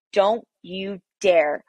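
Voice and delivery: half-acted fury at her husband, pitch climbing; wife reliving yelling at her husband, mildly heated; retold angry outburst. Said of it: "And I'm screaming at him".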